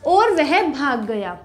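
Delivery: और वह भाग गया very slow, as a separate clause; resuming after pause. Shown as a demonstration. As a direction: pick up at और and stretch out भाग गया. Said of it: "यहाँ पर हम थोड़ी देर के लिए रुके".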